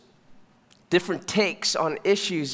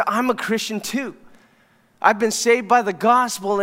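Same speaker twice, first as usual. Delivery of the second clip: higher-pitched imitation of an eager believer; mildly excited; 4 semitones higher, 3 dB louder than usual. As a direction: retell his excited testimony, voice lifted. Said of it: "he got excited 'cause he says".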